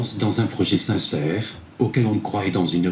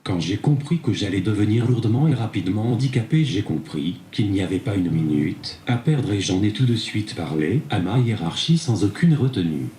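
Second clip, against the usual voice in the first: synthetic tablet voice; text-to-speech reading. Real, not acted. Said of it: "c'est grâce à cette tablette". (voix de synthèse)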